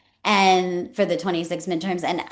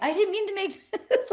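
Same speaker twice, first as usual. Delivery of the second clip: much higher, apologising through a laugh; laughing apology; 14 semitones higher than usual. Retold or imitated. Mother apologising to daughter, laughing and high. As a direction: laugh it out while saying sorry. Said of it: "I'm like".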